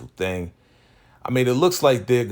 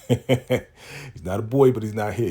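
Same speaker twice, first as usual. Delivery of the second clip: mock sassy reply; 4 semitones higher than usual. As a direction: stretch "boy" out with mock attitude. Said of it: "repeats line with new delivery".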